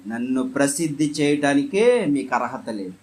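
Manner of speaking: firm command. Retold or imitated. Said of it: "ఖండితంగా ఆజ్ఞాపించాడు".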